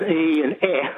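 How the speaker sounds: "E and eh", a long ee then an open eh; contrasting vowel sounds. Shown as a demonstration. Caller explaining vowels to host, E and eh distinctly sounded. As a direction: set "E" apart from short, open "eh". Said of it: "have the eh sound".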